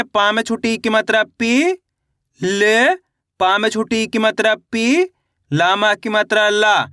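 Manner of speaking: teacher spelling aloud, each syllable set apart. Shown as a demonstration. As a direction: sound out पी, ले, ला one by one with pauses between. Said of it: "इस तरीके से एक अक्षर का उच्चारण".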